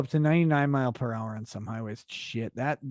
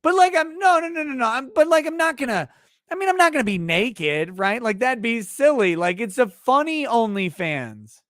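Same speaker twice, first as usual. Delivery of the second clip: high whiny wife; 5 semitones higher than usual. Retold or imitated. Wife voiced pleading.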